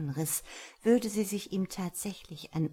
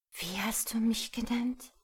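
startled, higher breathy whisper; 6 semitones higher than usual. A narrator's reading. Patricia whispering in shock at the old name. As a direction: ask it under your breath in shock. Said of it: "flüsterte sie".

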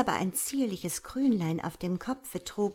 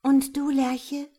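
sweetly; 5 semitones higher, 6 dB louder than usual. Acted. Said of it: "sagte es lieblich".

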